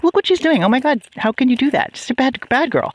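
high-pitched retold scolding of a dog; exclaiming. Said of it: "actually already exclaiming".

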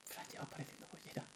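high, loud, laughing jab; laughing teasing; laughing mock. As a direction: tease her through laughter. Mocking Fran's coming out.

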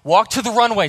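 put-on shouted Russian-accented pep command. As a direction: urge her up like a Russian coach. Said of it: "He's got, like, a Russian accent".

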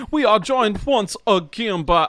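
slow, drawn-out Southern hick twang; hick Southern accent. Acted. Host introducing the producer in a slow hick drawl. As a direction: stretch it out like a country showman. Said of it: "really, really hick".

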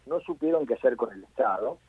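distant, off-mic voice; speaking away from the phone; phone held away. Real, not acted. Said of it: "te pido que te acerques un poquito al micrófono porque no, no te escucho bien".

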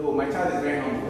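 a hint of a fond boasting parent, fast; quick proud-parent aside, lightly voiced. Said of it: "will say".

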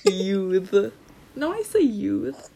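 lisping around a retainer; talking with a retainer in; wearing a retainer. Real, not acted. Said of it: "I have my retainers in".

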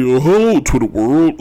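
lightly imitated celebrity greeting with drawn-out hello; mock a cheery social media video greeting; O J Simpson. Talk show host mocking a celebrity's Twitter videos, light impression. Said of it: "he goes on Twitter, ... He sounds like Chef".

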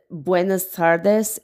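put-on slow, drawn-out greeting in a North Mexican accent; slow playful North Mexican accent greeting. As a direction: imitate a joking man's strong North Mexican accent, slowly. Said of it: "in a really strong, like, North Mexican accent".

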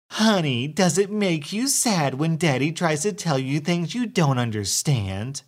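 high, sugary talking down; condescending baby talk. Acted. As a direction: coo at the child, condescending. Entitled mother talks down to child.

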